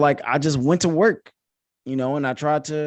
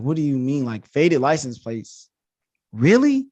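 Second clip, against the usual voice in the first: incredulous. Retold or imitated. Retold incredulous challenge to police.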